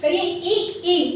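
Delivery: ई held long with tongue on palate; teacher models the palatal vowel ई; vowel demo. Shown as a demonstration. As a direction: say ई, ई deliberately. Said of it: "तो आप इसका उच्चारण स्थान करिए".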